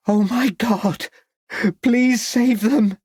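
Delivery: high, slow, desperate shout. A narrator's reading. Lucy begging the men to save them, high desperate shout. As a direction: shout for help, pleading. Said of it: "shouted Lucy".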